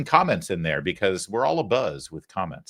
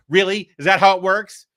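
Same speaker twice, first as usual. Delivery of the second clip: mock disbelief; 8 semitones higher, 8 dB louder than usual. Mock pep talk about losing daughter.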